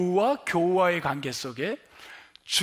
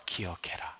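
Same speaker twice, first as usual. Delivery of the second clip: 기억해라 whispered low with a falling close; breathy hush; 12 semitones lower, 11 dB quieter than usual. Shown as a demonstration. Pastor repeating Jesus' command to the congregation, whispered. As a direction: breathe 기억해라 softly as a solemn charge. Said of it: "내가 한 말을".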